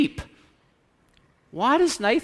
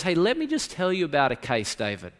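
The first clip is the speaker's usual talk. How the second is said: gentle and quiet; faster than usual. Retold or imitated. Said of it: "very carefully, very gently, very quietly".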